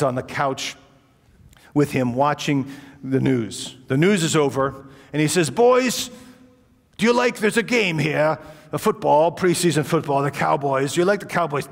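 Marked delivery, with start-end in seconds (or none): 5.5-11.7 put-on old gentleman voice. Old host offers football.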